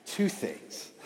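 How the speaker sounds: hushed, deliberate imitation of dad; dad's teaching cue. Shown as a demonstration. Son imitating dad starting a lesson, hushed and deliberate. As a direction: set it down softly, like a father about to share a truth. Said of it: "you gotta say it like that".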